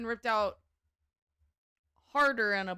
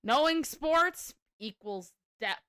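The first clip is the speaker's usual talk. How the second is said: mocking repeat; 4 semitones higher, 4 dB louder, slower than usual. Mocking the streamer's claim.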